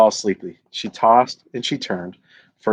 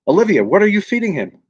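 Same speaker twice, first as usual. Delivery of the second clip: surprised mother; 10 semitones higher, 4 dB louder than usual. Acted. Mother questions Olivia in story.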